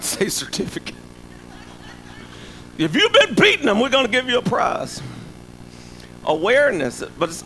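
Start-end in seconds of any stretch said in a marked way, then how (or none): 2.8-5.0 mock announcement. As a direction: sarcastically announce a prize, pitched way up. Mock award for abusers joke.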